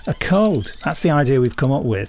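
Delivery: put-on light northern English accent, chatty and pleased with himself; a mild Lancashire-Yorkshire twang throughout; generalised northern accent. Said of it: "This has been my generalised northern accent".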